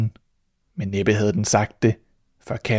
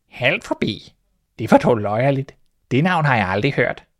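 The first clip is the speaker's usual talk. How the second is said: puzzled; 2 semitones higher than usual. Acted. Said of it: "sagde musen forundret".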